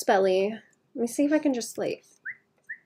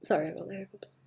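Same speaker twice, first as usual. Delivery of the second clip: whispering; 10 dB quieter, faster than usual. Real, not acted. Whispered apology mid-stream.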